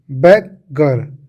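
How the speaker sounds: बेगर slowly broken in two, "beg... gar"; split into parts. Shown as a demonstration. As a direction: say बेगर as two separate pieces, drawn out. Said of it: "बेगर बन गया". (बेगर को दो हिस्सों में तोड़कर, धीरे-धीरे)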